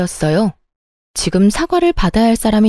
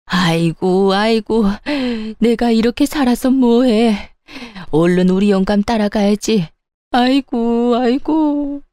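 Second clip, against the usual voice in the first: slow hammed-up keening of an old mother-in-law; fake wailing; slower than usual. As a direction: ham up a tearless lament to win the son's pity. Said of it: "곡소리를 내며 세상 억울한 척".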